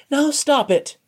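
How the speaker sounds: high, firm order to halt the mockery; commanding. A narrator's reading. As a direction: cut the teasing off firmly. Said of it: "Amose commanded".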